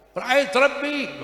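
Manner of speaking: slow, loud, high cry; shouting. Acted. Disciple shouting to his teacher that he saw God, loud and slow. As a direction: cry it out in joy, stretched slow. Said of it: "pokoknya teriak".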